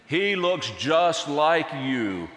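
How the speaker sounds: put-on slow, drawn-out gushing over the baby; admiring onlookers. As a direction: coo over the child like a fond neighbour. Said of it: "People look at little Jesus and they say".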